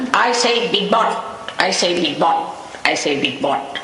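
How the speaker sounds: imitating a would-be Englishman hailing people; mock English gent. Family man calling passers-by from the gate, mock English accent. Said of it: "He used to call everyone like this".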